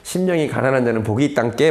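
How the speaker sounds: lightly done Jeolla dialect. Shown as a demonstration. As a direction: give the verse a homely Jeolla-dialect ending. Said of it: "느낌을 살리면". (전라도 사투리로 살짝)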